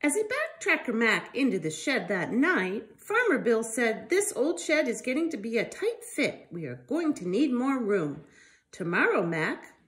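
lively storybook reading voice; reading to children. Acted. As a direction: read it out to little ones with life. Reads picture book to children.

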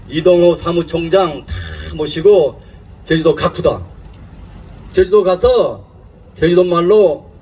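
lightly voiced Jeju dialect, unhurried; Jeju dialect greeting. Shown as a demonstration. Scene: speaker greets Jeju people in their dialect to calm them, lightly voiced. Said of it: "인사를 하고 시작할 테니까".

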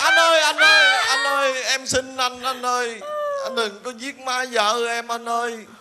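hammed-up plea to the robber, shrill then pleading; desperate pleading. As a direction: beg for her life, hammed-up. Begging the robber for mother-in-law.

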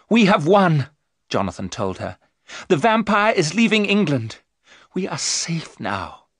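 high, loud announcement easing into relief; triumphant. Acted. Jonathan tells Mina they have won, triumphant.

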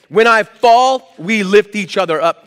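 preacher's ringing call; emphatic. Real, not acted. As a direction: lean hard into it.

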